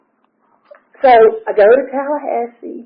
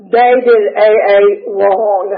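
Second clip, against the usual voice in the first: laughing, mock scolding; 4 dB louder, slower than usual. Real, not acted. Mocking the Tallahassee AA.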